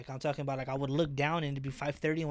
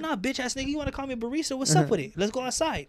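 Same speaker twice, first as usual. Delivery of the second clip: much higher, heated fight call; furious challenge; 10 semitones higher, 5 dB louder than usual. Retold or imitated. Daring the customer to step outside, heated and high.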